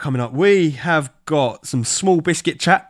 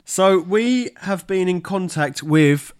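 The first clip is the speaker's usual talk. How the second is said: slow, building louder hype; announcer build-up; 2 semitones higher, 3 dB louder, slower than usual. Real, not acted.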